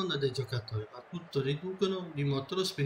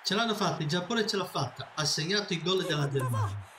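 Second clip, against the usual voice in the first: breathless italian goal commentary; faster than usual. Acted. (telecronaca del gol concitata)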